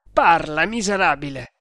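shouted order, loud on first word; angry shout. Acted. Tremal Naik orders the tortured prisoner to speak, shouting. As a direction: shout it, demanding an answer. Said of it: "gli gridò".

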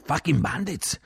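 high shouted answer; unthinking retort. A narrator's reading. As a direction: blurt it out in a high voice. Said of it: "Io risposi senza pensare".

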